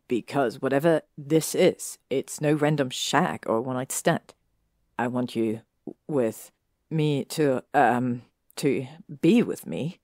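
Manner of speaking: earnest confession that stumbles as it goes; serious edge. Acted. Draco confessing to Hermione, serious then hesitant. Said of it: "speak with a serious edge to his voice".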